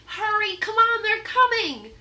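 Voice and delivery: high, loud panicked hurry; urgent call. Acted. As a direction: warn that they're coming. Annie urges Jack to flee.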